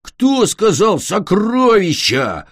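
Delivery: slow, drawn-out monster growl; a villain sniffing out treasure. Acted. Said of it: "прорычал Глин".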